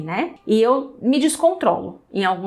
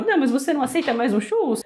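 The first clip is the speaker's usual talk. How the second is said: imitating Chaves offer; 3 semitones higher, faster than usual. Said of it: "cena do Chaves com o churros".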